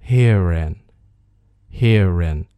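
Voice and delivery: herein as here and run together, "hee-ren"; linked pronunciation. Shown as a demonstration. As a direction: link the R straight into the vowel in herein. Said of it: "所以可以连读成". (herein 连读，中间带"日"音)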